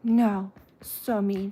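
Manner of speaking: slow, drawn-out pitying coo; sympathetic pet talk. Real, not acted. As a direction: commiserate slowly with a hurt pet. Babying the pet that fell.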